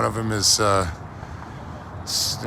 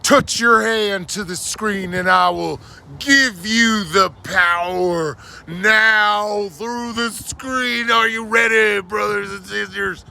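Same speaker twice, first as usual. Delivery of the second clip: televangelist preaching. Pretend. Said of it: "That literally gave me chills".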